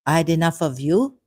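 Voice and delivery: light Indian English lilt, quoting a man; a hint of an Indian man's accent; mild Indian accent rising on "you". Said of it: "Indian man".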